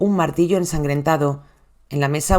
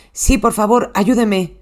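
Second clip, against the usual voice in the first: panicked plea; 4 semitones higher, slower than usual. Retold or imitated. Husband begging the 911 operator, frantic. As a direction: voice raised, frantic and pleading.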